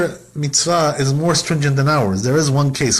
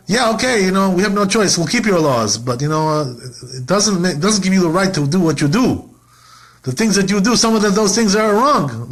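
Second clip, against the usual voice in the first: grudging defiance; 4 semitones higher than usual. Retold or imitated. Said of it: "They, they say to God".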